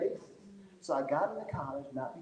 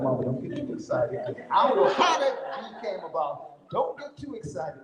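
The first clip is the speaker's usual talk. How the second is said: louder, insistent plea, pitch climbing; mock cautioning; 3 semitones higher, 5 dB louder than usual. Son to mother excited over his B, insistent mock cautioning. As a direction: playfully warn someone off celebrating.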